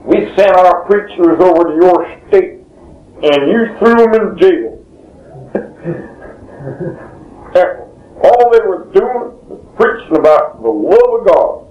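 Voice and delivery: doing the devotee's put-on Southern voice to the governor's office; southern dialect. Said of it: "in this southern dialect".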